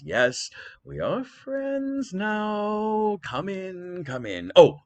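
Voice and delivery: slow, hammy host voice; a king overdoing the welcome; welcoming Menelaus. Acted. Menelaus to the Trojans, slow hammed-up welcome. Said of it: "threw open his palace door and said".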